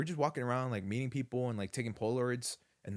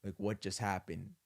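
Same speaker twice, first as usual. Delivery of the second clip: disbelief; 2 semitones lower, 6 dB quieter, slower than usual. Retold or imitated. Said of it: "in disbelief".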